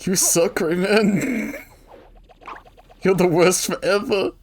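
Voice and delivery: mock whiny insult. Acting out insults aimed at Rayman.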